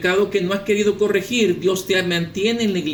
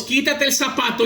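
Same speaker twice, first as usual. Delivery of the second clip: higher, more insistent command; mysterious voice's repeated command; 5 semitones higher than usual. Acted. Unseen voice insisting to the pastor, lightly acted command. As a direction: press the order with lightly acted urgency. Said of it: "Otra vez escucha la voz".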